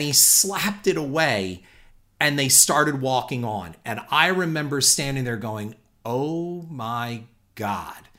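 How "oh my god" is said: slow, soft, awestruck murmur; stunned hush. Retold or imitated. Watching Tom Cruise walk past, a slow, soft, stunned murmur. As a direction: breathe it out in shock. Stunned under his breath.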